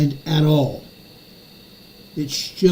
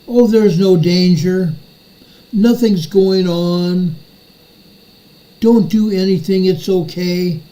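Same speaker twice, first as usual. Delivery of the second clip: slow, drawn-out mock reassurance; John Kirby. Spokesman telling the public not to worry, lightly mocked reassurance. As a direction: lightly mimic an official playing down danger. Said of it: "Mister John Kirby ... is lying to the public".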